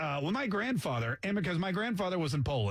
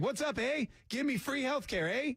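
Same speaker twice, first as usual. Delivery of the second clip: lightly voiced Canadian, pitched higher; breezy, higher-pitched ask with a tagged-on "eh"; mock Canadian newcomer; 6 semitones higher than usual. American joking about walking into Canada, mock Canadian. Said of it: "walk into Canada and be like".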